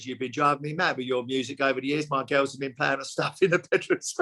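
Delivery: lightly voiced Cockney film star; a hint of an imperfect London impression; Michael Caine. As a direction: have a rough go at a famous London accent. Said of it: "it was not the best accent in the world".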